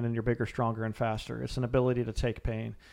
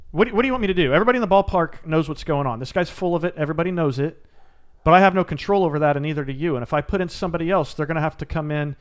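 angry dad; 4 dB louder than usual. Retold or imitated. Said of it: "and he's pissed".

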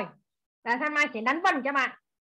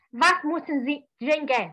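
German phrase; slower than usual. Shown as a demonstration. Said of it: "có mấy câu thôi à".

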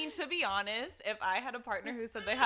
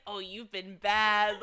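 slow, lightly played dominatrix; playfully stern, with a laugh; mock dominatrix scolding; 2 semitones lower, 4 dB louder, much slower than usual. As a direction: draw it out as a teasing scold. Imitates dominatrix scolding a client.

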